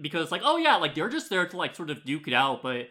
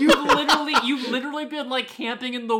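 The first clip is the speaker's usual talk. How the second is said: high laughing words; 9 semitones higher, 4 dB louder, faster than usual. Real, not acted. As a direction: speak through a burst of laughter. Laughing while mocking the characters.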